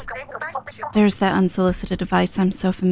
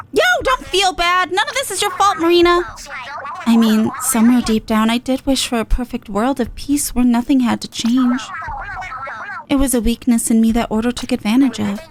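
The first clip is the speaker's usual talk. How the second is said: higher, tough but kind; Pearl comforting; 5 semitones higher than usual. Acted. Pearl telling Marina not to blame herself, tough and kind. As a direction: reassure your friend with swagger.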